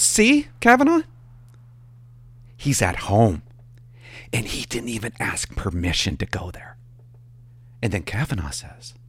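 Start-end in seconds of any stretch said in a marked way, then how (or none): 0.0-6.8 a jealous dispatcher telling on him to the boss; mock tattling dispatcher.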